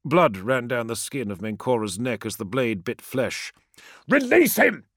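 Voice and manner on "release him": high, loud command; shouted order. A narrator's reading. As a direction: order him to let go. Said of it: "shouted Promus".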